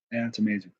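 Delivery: talking through a numb mouth from hot pepper; words slurred by a numbed tongue. Real, not acted. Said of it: "My mouth is going numb".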